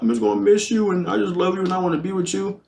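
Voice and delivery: mock-tearful imitation; imitated crying. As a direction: put on a tearful girlfriend plea. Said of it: "She starts crying and shit".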